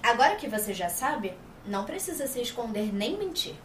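a hint of a posed, projected character voice; lightly placed dubbing voice. Dubber giving MJ's line in her character voice. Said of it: "Toda uma impostação vocal".

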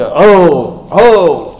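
repeated drawn-out cheer; slogan cry. Acted. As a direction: call it out twice in acted joy. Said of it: "وہ ایک نعرہ لگائے گا".

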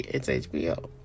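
HBO slogan voice. Retold or imitated. Fan quoting the HBO tagline to viewers, deep announcer voice. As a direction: intone it like the old HBO tag line.

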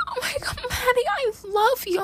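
hammed-up tearful drunk wail; mock sobbing. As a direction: whimper it like a messy drunk friend. Drunk Cassie crying to Maddie.

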